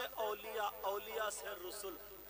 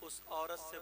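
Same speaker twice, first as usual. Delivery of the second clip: softer, intimate narration; soft sermon narration; hushed storytelling; 8 dB quieter than usual. A narrator's reading. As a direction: draw the listeners in quietly.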